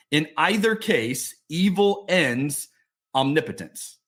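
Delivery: slow, deliberate read-aloud; reading a book quote. Acted. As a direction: read the line out with measured emphasis.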